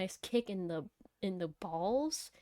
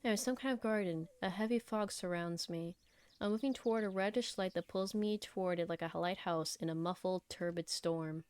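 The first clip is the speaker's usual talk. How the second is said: measured first-person story reading; story narration. Acted. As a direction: read the story out evenly. Reads the game's story aloud.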